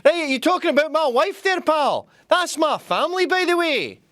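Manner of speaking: high, indignant mock retort, pitch up; tough-guy retort. Indignant man confronting the English, mock tough-guy retort. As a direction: bristle like a guy defending his family. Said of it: "the Indians are like".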